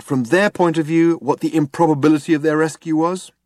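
high, keen questioning; inquisitive Zaphod. A narrator's reading. Zaphod asks Trillian to calculate the improbability, keen. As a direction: pitch it up, working it through.

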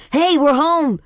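high, loud joyful yell; excited yell. A narrator's reading. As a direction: shout it out, thrilled to be home. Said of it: "let out a yell".

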